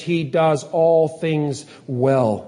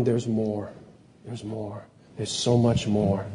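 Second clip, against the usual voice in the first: low, much softer awed murmur; awed hush; 6 semitones lower, 6 dB quieter than usual. Retold or imitated. Preacher voices astrophysicists in awe of creation, soft low hush. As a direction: let the awe hush your voice.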